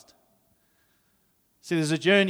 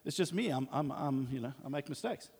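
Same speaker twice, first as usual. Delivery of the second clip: very soft, halting mumble; sheepish apology; 10 dB quieter than usual. Retold or imitated. Abraham excusing himself to the angry king, sheepishly. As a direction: shrink into a faltering, hushed excuse.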